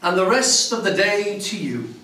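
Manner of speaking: lightly acted hearty reply, pitched a bit high; mildly hammed-up countryman's response; answering greeting. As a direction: return the greeting with a touch of spirit. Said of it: "The response is".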